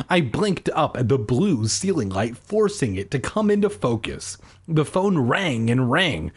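measured audiobook read; story narration. A narrator's reading. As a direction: narrate it steadily, line by line. Reads the story aloud.

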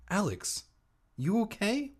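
high, careful check-in; concerned aunt. Acted. Aunt checking on Alex after the swerve, high and concerned. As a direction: ask gently in a high voice.

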